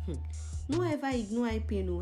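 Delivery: normal talking voice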